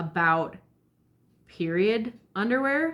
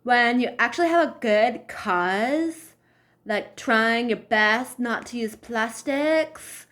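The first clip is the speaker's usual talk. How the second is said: put-on valley girl; 4 semitones higher, 3 dB louder, slower than usual. Mocking the woman's valley-girl talk.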